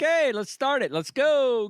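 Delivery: high, eager let's-go call; mock excited morning rally; excited wake-up cheer. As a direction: pump yourself up for game day. Excited morning kickoff quote.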